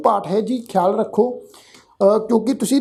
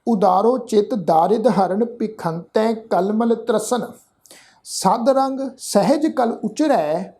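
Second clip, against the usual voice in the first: slow, careful verse reading with pauses; slow recitation; slower than usual. Shown as a demonstration. Teacher showing the sangat how to recite. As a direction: lay out every word for listeners to copy.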